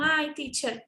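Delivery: a hint of a whiny student; imitating a student. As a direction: playfully voice a confused student. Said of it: "eles falam".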